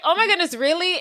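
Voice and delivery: high, bright surprise; thrilled little girl; excited gasp. Retold or imitated. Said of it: "she's like".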